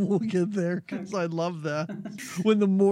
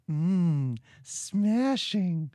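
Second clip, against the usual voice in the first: man doing a woman's voice; much slower than usual. Retold or imitated. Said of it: "I will try and do a lady's voice".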